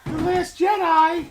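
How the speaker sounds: loud, very high, drawn-out whee; childlike mock squeal. Needling the others about The Last Jedi, childlike squeal.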